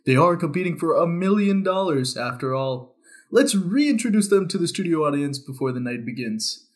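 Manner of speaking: upbeat TV host announcing contestants; game show host. Acted. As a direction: announce it like a talent show emcee. Hosts the talent show skit.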